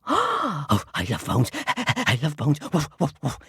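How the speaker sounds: panting, woofing dog. Acted. Dog hearing of a bone, panting and woofing. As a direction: talk between pants like an eager dog. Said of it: "And the dog ran off".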